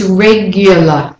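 regular with a clear y glide after the G; intrusive y. Shown as a demonstration. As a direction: say regular as REG-yuh-luh. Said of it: "the main thing is the y".

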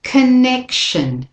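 "connection" slow, weak con, stress on nec; slow model word. Shown as a demonstration. Teacher introduces next list word, slow. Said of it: "And again".

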